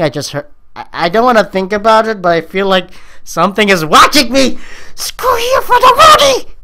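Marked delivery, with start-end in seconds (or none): 4.9-6.5 higher, startled yell; high shout. Real, not acted. Sudden outburst.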